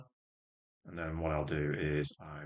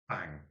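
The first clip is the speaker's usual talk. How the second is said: second short bang, falling off; nail gun noise; 3 dB quieter than usual. Retold or imitated. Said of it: "The impression of a nail gun going off".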